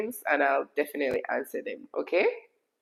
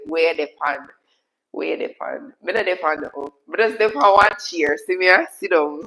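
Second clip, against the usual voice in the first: lively Jamaican patois, building louder; 4 dB louder than usual. Shown as a demonstration. Streamer showing viewers what Jamaicans say, in lively patois. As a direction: demonstrate casual Jamaican patois. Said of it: "that's what we say".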